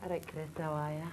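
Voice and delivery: broad northern English accent. Shown as a demonstration. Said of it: "My northern accent, you ready for it?".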